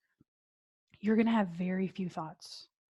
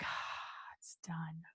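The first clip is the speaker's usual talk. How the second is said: very soft whispered relief; hushed, lower, finished; relieved whisper; 5 semitones lower, 15 dB quieter, much slower than usual. Shown as a demonstration. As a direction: exhale it like a deep breath. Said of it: "deep breath".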